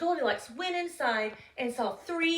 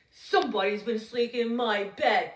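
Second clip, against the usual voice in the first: a hint of a big loud bear, louder; growly, loud Papa Bear; 5 dB louder than usual. Papa Bear finding his porridge eaten, loud growl. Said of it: "Papa Bear said in his loud, growly voice".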